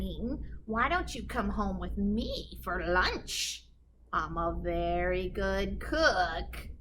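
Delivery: slow, sugary invitation; sly sweet talk. Acted. Witch sweetly luring the wolf to lunch. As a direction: lure him in sweetly.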